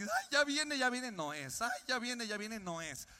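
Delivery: fidgety excitement at the arrivals gate; nervous hope rising and falling; anxious waiting. Retold or imitated.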